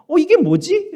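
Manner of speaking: jolted, suddenly baffled; acted startled confusion; startled surprise. Acted puzzled thought, repeated.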